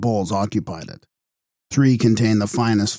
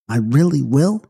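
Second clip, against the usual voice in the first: yawning; 5 semitones higher than usual. A narrator's reading. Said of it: "asked Lisa, yawning".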